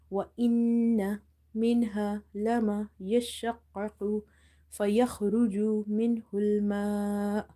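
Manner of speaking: Quran recitation. Shown as a demonstration. Recites the full verse.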